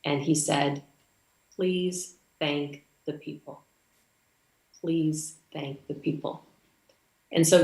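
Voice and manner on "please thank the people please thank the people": softer, slower, a touch of tears; gently moved, holding back tears; touched, teary. Retold or imitated. Moved customs officer asking her to thank Rotarians, softly teary. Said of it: "he had a tear in his eye".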